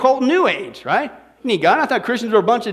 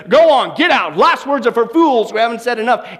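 retold scream; 3 dB louder than usual. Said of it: "He screamed at his nurse".

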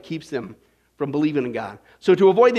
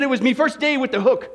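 laughing; 2 semitones higher than usual. Acted. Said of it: "He said".

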